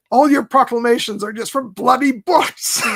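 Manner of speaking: mock exasperated shout; exasperated outburst. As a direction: snap it out like a man who's had enough. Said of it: "He's like".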